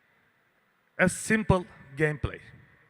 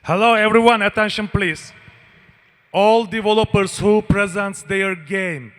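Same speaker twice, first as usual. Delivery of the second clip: azerbaijani accent; 2 semitones higher, 9 dB louder than usual. Real, not acted. Loud stage announcement to audience.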